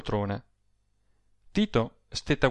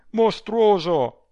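high, loud, drawn-out exclamation; outraged; 8 semitones higher, 6 dB louder, much slower than usual. A narrator's reading. Adele appeals to Rossani about her rival, outraged. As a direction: hurl the word out slowly.

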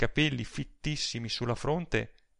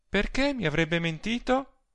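higher-pitched languid challenge; indolent, faintly scornful; 9 semitones higher than usual. A narrator's reading. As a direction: ask it with lazy, near-scornful disdain. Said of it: "con indolenza quasi sprezzante".

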